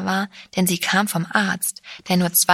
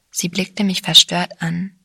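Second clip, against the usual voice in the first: usual speaking voice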